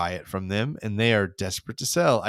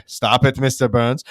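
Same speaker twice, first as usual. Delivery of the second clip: loud, flat stern order; loud German businessmen telling him to quit; stern scolding; 6 dB louder than usual. Retold or imitated. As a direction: tell him off firmly.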